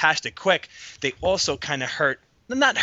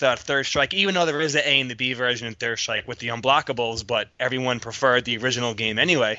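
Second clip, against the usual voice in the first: breathless, gasping for air between words; talking while winded and short of breath. Real, not acted. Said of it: "Sorry, I'm out of breath".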